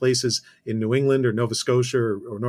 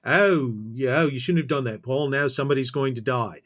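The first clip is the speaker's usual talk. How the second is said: badly attempted English accent; mock warning in an unconvincing English accent; the speaker's English accent. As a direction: have a loose, half-hearted go at an English accent. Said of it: "I can't do their accent".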